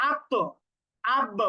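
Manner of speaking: "আত্ম" and "আব" each end on a hard stop with a small echoing bounce; qalqala bounce. Shown as a demonstration. Teacher showing qalqala on stopped letters. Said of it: "কলকলা করে ফেলি এবং কঠিন উচ্চারণ হয়".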